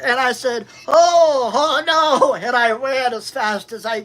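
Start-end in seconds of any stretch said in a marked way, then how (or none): 0.9-2.3 high, loud panicked cry; sudden alarmed oh no; panicked yelp. Retold or imitated. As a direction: yelp it like you're about to get hit. Fleeing girlfriend's baseball bat.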